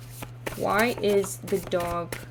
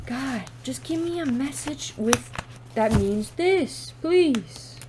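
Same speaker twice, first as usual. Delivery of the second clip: exasperated plea; 4 semitones higher than usual. Real, not acted. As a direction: beg the cards, voice rising on please. Begging the cards for a message.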